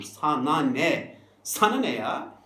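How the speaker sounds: mind-your-own-business snap; defiant retort. Acted. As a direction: tell them off, exasperated. Acted retort to critics.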